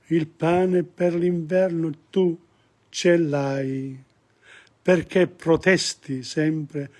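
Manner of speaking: slow, careful reading of Italian song lyrics; measured sing-song recital of lyrics. Shown as a demonstration. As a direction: read each line slowly for the class. Teacher reads song lyrics slowly.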